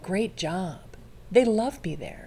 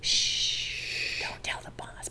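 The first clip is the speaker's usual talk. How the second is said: whispered aside, secret-sharing; hushed conspiratorial whisper; playful whisper; 8 dB quieter, much slower than usual. Pretend. Confiding aside about job interview.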